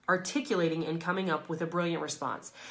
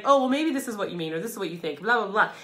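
mock eager prompting; 4 dB louder, faster than usual. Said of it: "You start giving them multiple choice".

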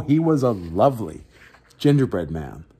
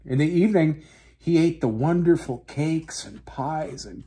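storybook narration. A narrator's reading. Radio host reading a children's story, calm narration. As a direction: read the tale gently to young listeners.

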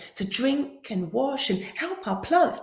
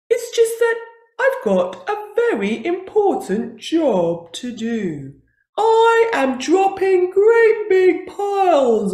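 tearful buffalo; 3 semitones higher, 6 dB louder than usual. Acted. Buffalo explaining, cry heard.

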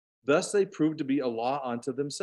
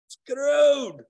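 higher and louder, a mock British "Screwed" with a long round "oh"; British accent; 12 semitones higher, 8 dB louder than usual. Shown as a demonstration. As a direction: say "Screwed" like a Brit, stretched to "skroh-d". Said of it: "Gotta say it like a Brit".

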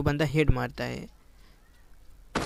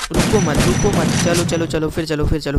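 louder, pushing the teammate on; urgent callout; 4 dB louder than usual. Real, not acted. Gamer yelling at his teammate to keep rushing, loud callout. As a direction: call it out so the squad keeps moving. Urging teammate mid-fight.

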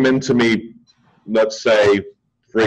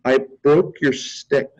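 1 imitated laughing client; 5 semitones higher than usual. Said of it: "And she goes".

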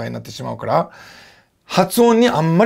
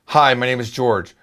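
slow, low-register self-introduction; low English voice; 3 semitones lower, much slower than usual. Shown as a demonstration. Teacher shows his voice when speaking English, low. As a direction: settle down into a lower English-speaking voice. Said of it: "こうやって低い声なんですよ".

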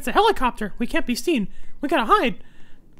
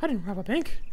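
whispering; 8 semitones lower, 8 dB quieter than usual. Real, not acted. Whispered aside.

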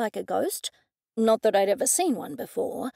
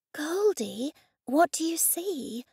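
Laura asking; 5 semitones higher, slower than usual. A narrator's reading. Laura asks eagerly.

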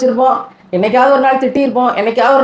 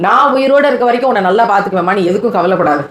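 tender promise. Shown as a demonstration. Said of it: "சொல்லுங்க".

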